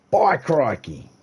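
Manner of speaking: high, loud, drawn-out posh Aussie exclamation; hammed-up posh Aussie; posh Australian. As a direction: proclaim it slowly as a posh Australian. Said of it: "If you're posh".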